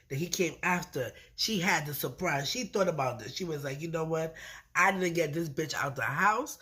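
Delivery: ordinary talk, nothing marked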